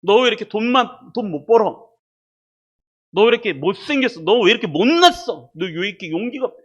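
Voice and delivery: imagined telling-off; mock reproach. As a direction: pretend scolding, pressing and loud. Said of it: "책망하시냐면".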